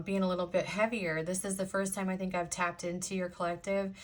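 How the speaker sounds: ordinary talk, nothing marked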